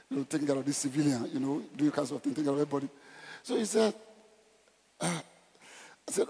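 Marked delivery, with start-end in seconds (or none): none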